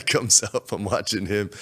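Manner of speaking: ordinary delivery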